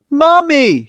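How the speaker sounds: very high, long wail; crying out. A narrator's reading. Miss Harper flees out the door, crying out high. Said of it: "she cried".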